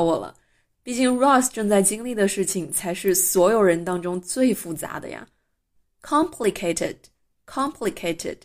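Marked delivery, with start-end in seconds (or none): 6.0-8.4 COMplicated, first syllable stressed and falling. Shown as a demonstration. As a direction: lean on the COM of "complicated". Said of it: "注意这个词的重音在前面第一音节".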